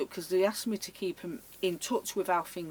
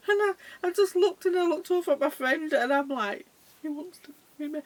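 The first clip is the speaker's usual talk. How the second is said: high-pitched telling through laughter; helpless amusement; 9 semitones higher, 6 dB louder than usual. Real, not acted. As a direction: struggle to get it out for laughing. Laughing while retelling the proposal.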